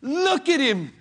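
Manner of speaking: insistent loud exhortation; pointing to Christ. Acted. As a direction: point them to him. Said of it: "I've got to say".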